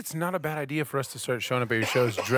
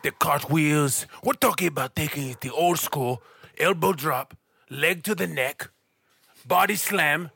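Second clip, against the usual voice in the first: wrestling promo. Acted. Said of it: "Tell 'em".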